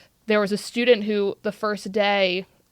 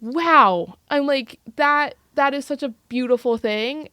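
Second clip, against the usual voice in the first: raised, loud wonder with a laugh; moved amazement; 4 semitones higher, 6 dB louder than usual. Retold or imitated. Educator reliving student's relief with chills, awed and laughing. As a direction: exclaim it as if awestruck all over.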